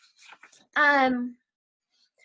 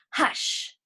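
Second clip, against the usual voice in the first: breathy shushing whisper; whispered hush. Acted. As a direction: hush like a secret. Her poem opens with hush.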